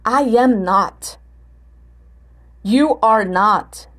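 slow statements, each word set apart; measured model answers ending level or falling on "not"; answer intonation. Shown as a demonstration. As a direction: spell out each negative answer slowly. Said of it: "Respostas com not, como é que vão ficar?".

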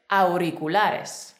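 "Auriculares" very slowly, each syllable clear; whole-word model. Shown as a demonstration. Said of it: "Ahora la palabra completa".

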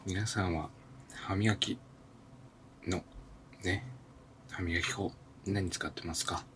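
talking through a toothbrush; while brushing teeth. Real, not acted. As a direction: mouth full of toothpaste, slurred. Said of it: "歯を磨きながら収録を終えたい". (歯磨きしながら話す)

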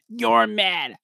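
high, imitated rapper taunt; six nine. Trying to recall the rapper's lines, six nine impression. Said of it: "from a New York accent to six nine".

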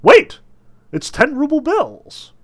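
high, loud excited discovery; joyful shouting. A narrator's reading. Balcony spectator finding money in a pocket, joyful shouts. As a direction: cry out with delighted amazement. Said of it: "a joyful voice said".

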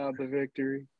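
glitchy robotic connection voice. Real, not acted. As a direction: sound like a choppy robot. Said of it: "Oh, we have robot voice".

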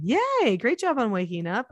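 high bright yay; cheerful praise. Retold or imitated. Mother praising her child for waking, cheerful. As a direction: cheer them on. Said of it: "Then I praise them".

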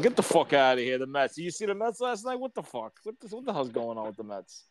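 everyday Brooklyn street talk; Brooklyn guys. Acted. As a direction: gripe like one of the boys from Brooklyn. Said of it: "talking more like, like my boys".

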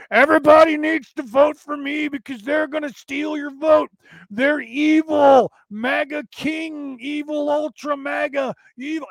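loud, high mock rant, slowing on evil; mock Chuck Schumer. Mocking Schumer at the cameras, hammed-up shouting. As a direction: shout it like a ranting senator. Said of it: "he's like this".

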